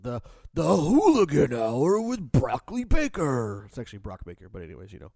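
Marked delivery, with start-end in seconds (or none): 0.5-3.6 joking. Pretend. Jokey mispronounced name.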